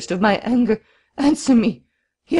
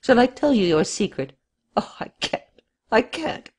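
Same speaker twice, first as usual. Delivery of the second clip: much higher and louder, in a frenzy; frantic, high, loud outburst; frenzied exclamation; 6 semitones higher, 5 dB louder than usual. A narrator's reading. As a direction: burst out in wild accusation. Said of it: "suddenly seized with a sort of frenzy, he rose to his feet and exclaimed".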